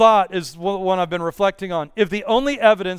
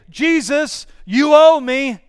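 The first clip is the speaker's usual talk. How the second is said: loud, higher demanding call; entitled shout to Jesus, louder and higher; entitled prayer; 5 semitones higher, 6 dB louder, slower than usual. Acted. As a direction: throw the demand up at him like he owes you. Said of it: "That's what an entitled prayer would sound like".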